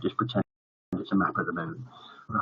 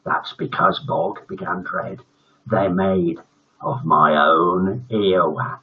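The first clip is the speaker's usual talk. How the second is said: gloating villain reveal; 4 semitones lower, slower than usual. Acted. Teacher reveals gross secret.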